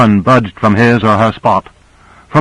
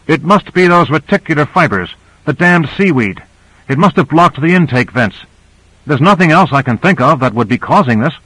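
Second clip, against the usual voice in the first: higher-pitched, troubled engineer voice; worried pilot; 5 semitones higher than usual. Acted. Pilot explains the blocked intake vents to crew, worried. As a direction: puzzle out the fault anxiously.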